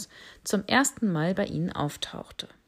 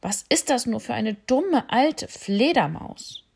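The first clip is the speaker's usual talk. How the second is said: mocking rhino; 5 semitones higher, 4 dB louder than usual. Rhino mocks the bat.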